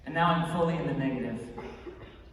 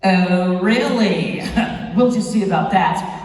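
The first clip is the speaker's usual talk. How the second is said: loud, mock-defiant comeback; cocky challenge; 7 dB louder, slower than usual. Beatboxer answering the train worker's taunt, cocky. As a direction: accept the dare with swagger.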